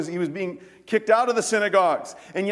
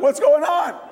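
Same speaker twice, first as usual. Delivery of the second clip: louder, higher stunned question; startled pallbearers; 7 semitones higher, 6 dB louder than usual. Retold or imitated. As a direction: react like you can't believe it.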